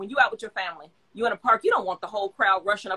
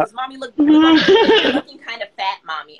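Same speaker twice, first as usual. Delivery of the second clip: daughter quote; 4 semitones higher, 9 dB louder, slower than usual. Retold or imitated. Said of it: "I'll be like".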